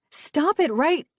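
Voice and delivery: Livy shouts to stop the fight; cut-off shout. A narrator's reading. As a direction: yell to stop them, then break off. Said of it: "she got no further".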